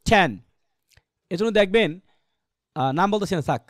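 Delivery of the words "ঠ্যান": ঠ্যান with aspirated start, open অ্যা vowel; correct pronunciation. Shown as a demonstration. Teacher answers with the right sound, aspirated ঠ্যান. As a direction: say ঠ্যান alone, puffed and open. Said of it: "অ্যার মতো হলে কি হবে?".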